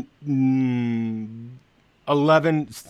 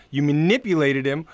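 mock dramatic accusation; 2 semitones higher, slower than usual.

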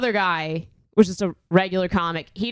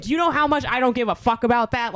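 higher-pitched indignant retort; retold losing her mind; 4 semitones higher, faster than usual. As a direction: replay an angry outburst. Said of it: "I was just losing my mind".

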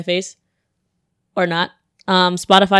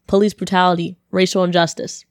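ordinary talk, nothing marked

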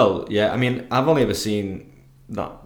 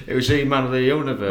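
put-on Yorkshire accent; faster than usual. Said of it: "in his Yorkshire accent".

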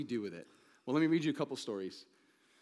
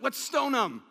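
much higher, louder mocking cry of the angry crowd; mock mob shout; 10 semitones higher, 6 dB louder, slower than usual. Crowd wants to stone Joshua.

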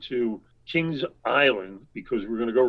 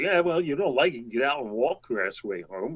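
mock snippy bickering. Friends arguing on a road trip, mock snippy bickering. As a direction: bicker like an old married couple, lightly acted. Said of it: "snipping at each other".

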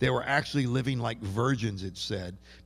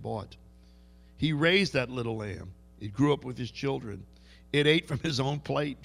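Jewish brogue. Retold or imitated. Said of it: "Can you hear the, the Jewish brogue there?".

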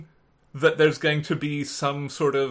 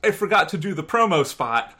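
flustered self-quote; faster than usual. Retold or imitated. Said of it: "I have to say".

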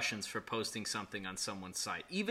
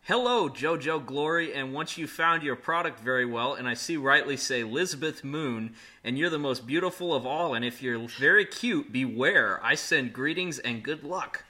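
reading broken English. Shown as a demonstration. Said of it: "That sounds like a Google Translate".

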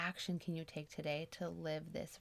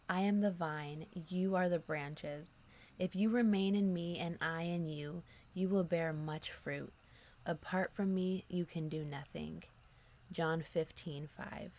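scripture reading; 4 dB louder than usual. Acted. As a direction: read the verse out firmly and unhurriedly. Reads the Bible verse aloud.

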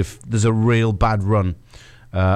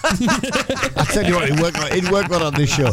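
much higher, slow, hammed-up replay check; mock replay voice; 9 semitones higher than usual. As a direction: play it like a drawn-out video review. Mock replay review on show.

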